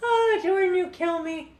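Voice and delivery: high, laughing delight at a viewer's joke. Real, not acted. Streamer laughing at Jordan's joke, high and amused. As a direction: giggle it out, amused.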